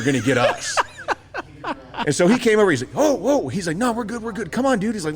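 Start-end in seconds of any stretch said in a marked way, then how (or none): 2.9-3.5 high-pitched placating quote; mock alarmed backing down. Outnumbered buddy heading off a fight, placating. 3.8-4.9 high-pitched hurried peacemaking; mock placating. Outnumbered buddy calming his friend, placating.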